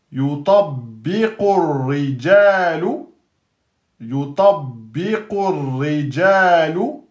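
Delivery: "Yutabbiqu" said slowly, rising; word by word. Shown as a demonstration. Teacher dictates word by word to students. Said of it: "je vous dis lettre, mot par mot".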